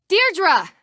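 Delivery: high-pitched cry of a name; surprised exclamation. Acted. Woman sees a friend arrive, surprised. Greets someone arriving unexpectedly.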